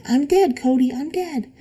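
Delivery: retold screaming. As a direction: imitate the little brother crying out in panic. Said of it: "he started screaming".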